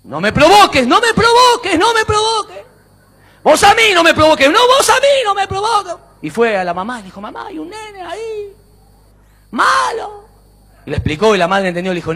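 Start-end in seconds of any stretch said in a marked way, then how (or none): 0.0-6.0 high, quarrelsome calls echoed back; acted angry yelling. Boy warns the unseen child off, yelling. 7.2-10.2 put-on high, small child's voice; little boy complaining. Boy tells mum about the mean child, complaining.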